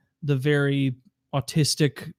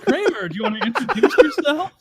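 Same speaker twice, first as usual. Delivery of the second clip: higher, louder put-on voice with a laugh; Jerry impression; 11 semitones higher, 4 dB louder than usual. Friend voicing Jerry's trick to learn her name. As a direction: ask it slyly. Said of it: "He's like".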